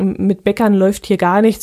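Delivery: normal talking voice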